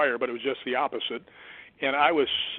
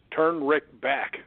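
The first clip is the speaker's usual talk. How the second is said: ghostly man's voice; much slower than usual. Retold or imitated. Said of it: "there's a man's voice says".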